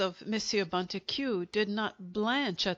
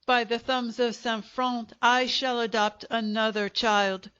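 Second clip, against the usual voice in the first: shouting on; 2 semitones higher, 4 dB louder than usual. Acted. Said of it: "he shouted".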